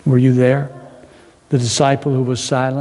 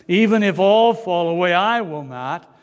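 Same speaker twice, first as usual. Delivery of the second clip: higher, sure of himself; confident Peter; 5 semitones higher than usual. Acted. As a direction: Peter insisting he stays. Peter boasting.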